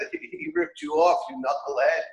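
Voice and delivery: ripped jumps high, then a scoffing you knucklehead; outraged friend scoffing; mock outrage. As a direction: hit ripped way up in disbelief. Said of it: "this is the mashal".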